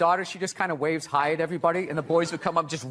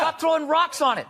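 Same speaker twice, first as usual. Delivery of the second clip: put-on raised, higher-pitched order to a kid; half-yelled telling-off; mock angry scolding; 8 semitones higher, 3 dB louder than usual. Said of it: "you could yell at people's kids".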